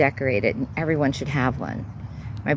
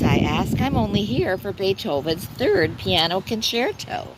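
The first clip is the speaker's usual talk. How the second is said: poem reading; 3 semitones higher than usual. Acted. Reads own poem aloud.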